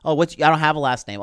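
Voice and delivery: quick sarcastic parody of Rey's line; mocking retake. Ranter mocking Rey's line, fast sarcastic parody. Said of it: "we know where this is fucking going".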